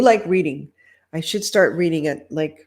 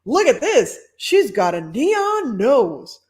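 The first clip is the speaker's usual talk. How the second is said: delighted host; 6 semitones higher, 5 dB louder, slower than usual. Acted. Host marveling at costume.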